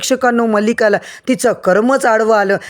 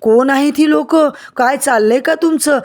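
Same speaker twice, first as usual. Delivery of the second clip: mock-stern call of who these people are; raised retold demand; 4 semitones higher than usual. Swanandi confronting the goons at home, raised pitched-up demand. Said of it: "आणि जोरात म्हणते".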